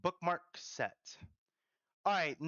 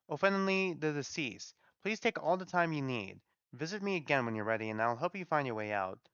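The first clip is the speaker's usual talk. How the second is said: gentle Godmother, kindly; faster than usual. Acted. Godmother asking everyone to treat a grieving girl kindly, gentle. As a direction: welcome and reassure with measured care.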